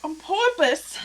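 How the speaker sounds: "porpoise" said as POR-pus, like "purpose"; Jersey "porpoise" with the second vowel swallowed. Shown as a demonstration.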